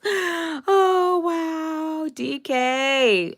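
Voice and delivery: high delighted oh wow; light up greeting a friend; gushing high hello to a viewer; excited greeting. Real, not acted.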